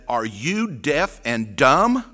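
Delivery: slow, exasperated snap; mock exasperated. Wife snapping at the giggling counter girl, exasperated. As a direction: imitate the wife losing patience. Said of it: "she just lost it".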